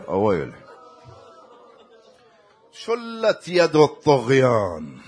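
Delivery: measured mourning verse recital, falling away at the end; elegy recitation. Acted. Preacher recites verses on Fatima's suffering, mournful elegy.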